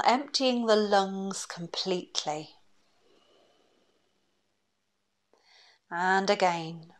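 calm, unhurried breathing-exercise voice; guided meditation. Acted. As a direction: guide them gently through each breath, leaving long pauses.

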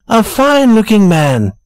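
warm. A narrator's reading. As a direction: offer a warm compliment, lightly voiced. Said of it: "said Mister Donovan warmly".

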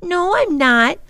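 put-on high, loud girl's denial; a sister loudly denying she is scared; loud declaration. A narrator's reading. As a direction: shout it back at him. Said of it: "she declared loudly".

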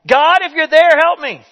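hammed-up plea shouted upward; retold yell. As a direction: call up the cliff in a half-acted cry for help. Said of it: "He simply yelled out".

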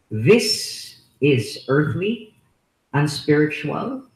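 earthly drawn out slowly with a rising end; slow emphasis. Shown as a demonstration. Preacher stressing the word to the congregation, slow deliberate emphasis. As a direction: lean slowly on earthly and unspiritual. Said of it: "I'd like to emphasize those".

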